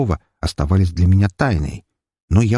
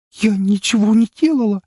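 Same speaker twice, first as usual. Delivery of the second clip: high, strangled, frightened cry; choked trembling denial. A narrator's reading. Girl denies attack to the count, choked and frightened. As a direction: force it out through fear. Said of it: "сдавленным, дрожащим голосом".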